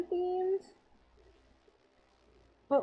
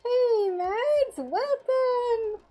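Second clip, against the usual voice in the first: excited greeting; 11 semitones higher, 4 dB louder, much slower than usual. Real, not acted. Greeting a viewer on stream.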